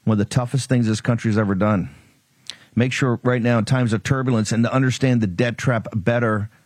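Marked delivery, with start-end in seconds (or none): 2.8-6.5 punchy sponsor read over music; energy drink ad. Acted. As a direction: pitch the product with energy. Host reads sponsor ads.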